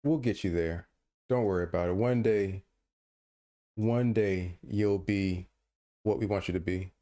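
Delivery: pat him on the head with your voice; mock-tender condescension; mock soothing. Condescending reassurance to co-host.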